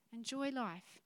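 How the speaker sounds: a quiet echo of the point; softly repeated. Shown as a demonstration. Preacher softly repeating "Enjoy life" to the congregation. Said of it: "repeated for emphasis".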